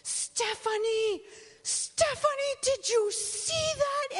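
put-on excited surgeon with an African accent, high and loud; thrilled African-accented doctor calling his patient. Surgeon with an African accent shows the patient his thrilled discovery. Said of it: "He had an African, uh, accent".

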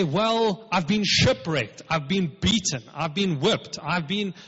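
mock complaint. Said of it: "He didn't say".

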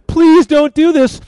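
high, slow, drawn-out plea; desperate mock begging. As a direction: beg at the queen's feet, hammed up. Haman falls on couch, begging again.

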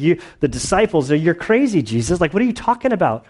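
mock disbelief, rising high and quick at the end; retelling the disciples scoffing at Jesus; incredulous disciples. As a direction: poke fun at a strange question. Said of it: "Everybody's like".

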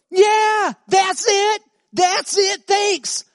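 high, loud, overjoyed burst; light up with the discovery; excited. Retold or imitated. Woman thrilled as the scripture finally clicks, loud excited burst. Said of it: "She goes".

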